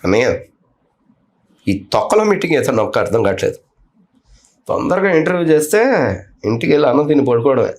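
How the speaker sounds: lightly voiced film-star mimicry with long pauses; Mahesh Babu impression. Shown as a demonstration. Mimic teasing the interviewer in a film star's voice, lightly imitated. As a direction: pause between phrases, a hint of the star's understated delivery. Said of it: "ఒకసారి మా కోసం మహేష్ బాబు గారి voice".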